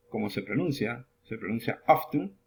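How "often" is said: OFTEN with O, F, T and N run together; pronunciation demo. Shown as a demonstration. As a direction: say "often" with the T sounded. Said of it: "Intentemos pronunciar una O". ("often" pronunciando la T y la N juntas)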